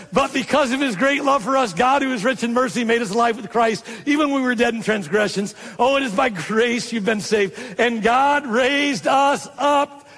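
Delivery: high, excited preaching of scripture; Paul. Retold or imitated. Preacher voicing Paul still preaching to believers, excited. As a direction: keep preaching the verse without letting up. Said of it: "He's still preaching".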